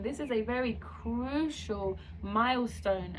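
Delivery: "crucial" drawn out slowly for emphasis; stress on crucial. Real, not acted. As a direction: lean on "crucial", stretching it out. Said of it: "I emphasize the word crucial".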